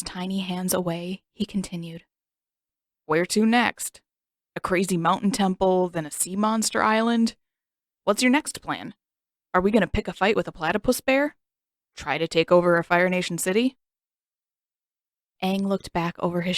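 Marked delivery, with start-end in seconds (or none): 3.0-13.8 sarcastic rant. Acted. Sokka sarcastically listing past trips.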